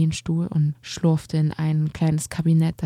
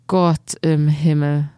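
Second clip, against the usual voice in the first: exclaiming; 4 dB louder, slower than usual. Acted. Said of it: "rief Herr Koriander".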